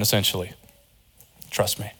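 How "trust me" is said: soft, low "Trust me"; voice of God. Acted. God inviting trust, a soft lowered voice. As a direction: speak it gently and quietly as God. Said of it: "What was he saying to Adam".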